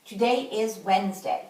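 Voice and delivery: Today is Wednesday said with the voice staying level to a stop; level statement tune. Shown as a demonstration. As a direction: keep the pitch even and just stop. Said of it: "my voice stays at the same level".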